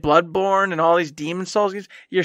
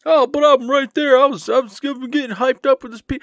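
mock excited voice; 8 semitones higher, 4 dB louder than usual. Mocking past self's excitement.

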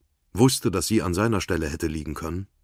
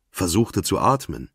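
plain reading voice

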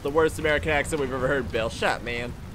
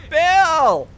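very high, loud shout of the name; outraged yell; 14 semitones higher, 10 dB louder than usual. Real, not acted. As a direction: yell his name in high-pitched protest. Yelling at Bill in game.

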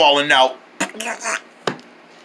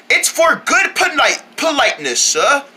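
prim polite British voice; hammy British politeness; posh British accent; 6 semitones higher than usual. Acted. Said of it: "all that Britishness".

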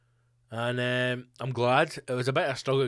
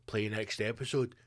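sneaky prince; 4 semitones lower, 8 dB quieter than usual. Retold or imitated. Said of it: "And he's like".

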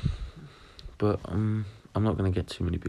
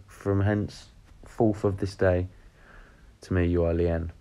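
mock proclamation; slower than usual. Mock-solemn declaration.

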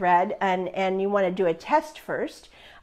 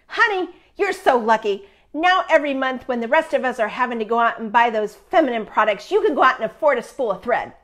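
teasing friend; faster than usual. Retold or imitated. Friend teases her in hospital about thread, lightly sweet. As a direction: play the cheeky dear friend, not fully in character. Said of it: "And she said".

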